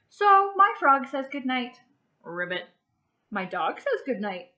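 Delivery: bright, even storybook read-aloud for little ones; gentle classroom story reading; reading to children. Acted. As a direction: read it like a picture book to a class. Teacher reads picture book aloud.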